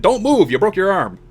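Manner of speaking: high-pitched acted command; retold urgent order. Coaches shove injured player to the ground, retold urgent order.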